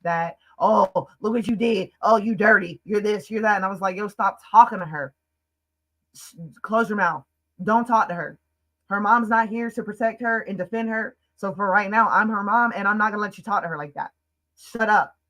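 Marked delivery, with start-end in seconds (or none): 0.6-3.6 higher mock scolding; retold blaming rant, pitched up; going off. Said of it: "he's going off on this ten-year-old". 4.0-15.2 retold protective anger. Retold defending of crying child.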